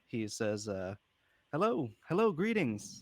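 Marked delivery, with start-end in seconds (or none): 1.5-3.0 delighted character voice, higher pitch. Voicing a character greeting strangers who make eye contact: happy character greeting everyone. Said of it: "he's so happy to just be around this many people".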